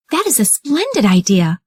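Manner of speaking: put-on high, sweet little girl; high girlish voice for Red Riding Hood. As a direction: play the eager young girl. Red agrees with wolf.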